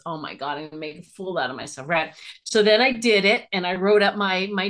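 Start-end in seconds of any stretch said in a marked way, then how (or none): 0.1-1.9 panicked mutter. Retold or imitated. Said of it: "and I thought".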